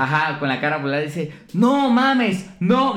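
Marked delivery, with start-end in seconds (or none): 1.5-3.0 much higher, louder mock yell; retold yell. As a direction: shout it like the overjoyed cabbie. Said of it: "Y empieza a gritar". (grito exagerado de taxista, más agudo y fuerte)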